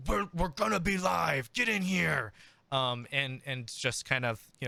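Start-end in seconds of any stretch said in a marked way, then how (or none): 0.1-2.3 raised, higher-pitched mock yell; imitated yell. Host retelling how players got yelled at to come in, mock yell. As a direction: imitate someone hollering everyone into the room. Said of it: "yelled at you and said".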